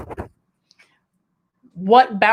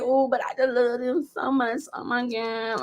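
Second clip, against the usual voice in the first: mock gushing; 2 semitones higher, 8 dB quieter than usual. Friend back to gushing.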